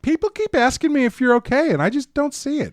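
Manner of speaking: high-pitched mock cheer; oblivious husband. Oblivious husband talking to his wife, hammed-up high voice. Improvised skit as oblivious Hutter.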